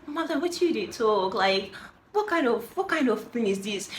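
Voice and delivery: retold incredulous questioning; incredulous challenge. Lady challenges woman in retold argument.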